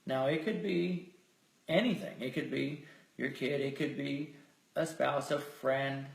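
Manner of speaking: measured, softened voice with lingering pauses; guided meditation. Real, not acted. Leader inviting listeners to feel grateful, guided meditation. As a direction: let each suggestion settle before the next.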